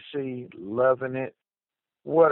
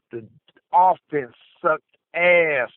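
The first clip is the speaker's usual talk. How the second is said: slow, louder, disgusted rant; venting; 3 semitones higher, 5 dB louder than usual. Real, not acted. Angry caller vents about his team's offense in a slow, louder rant. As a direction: spit out your disgust with the offense.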